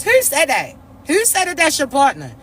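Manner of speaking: lightly put-on challenging voice; a hint of someone else's voice, questioning; Portia. God questioning the chosen one's partner, in a light Portia voice. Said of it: "in Portia voice".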